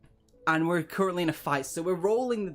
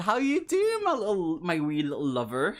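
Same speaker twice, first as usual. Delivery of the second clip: excited greeting; 8 semitones higher, 4 dB louder than usual. Real, not acted. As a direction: squeal a delighted welcome. Greets friend Ben from chat.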